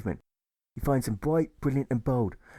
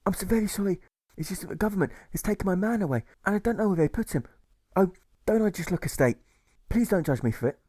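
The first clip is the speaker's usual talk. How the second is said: crying bellow; 9 semitones higher than usual. Acted. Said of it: "cry and bellow".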